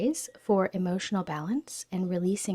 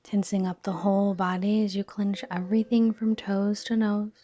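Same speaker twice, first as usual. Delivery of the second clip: soft, unhurried yoga nidra guidance; calm relaxation-practice voice, settling softer as it goes; guided meditation; 3 dB quieter than usual. Real, not acted. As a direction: gently lead them into stillness, pausing between phrases.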